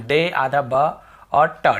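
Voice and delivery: "डे आधा ब और ट" slowly, piece by piece; broken into sounds. Shown as a demonstration. Teacher breaks the word up for students, slow separate sounds. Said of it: "ऐसे पढ़ते हम".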